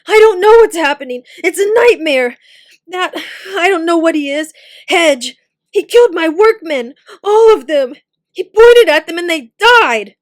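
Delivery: high, loud, close to tears; distraught. A narrator's reading. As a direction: pour out the horror in panic. Tim recounts horror, near tears.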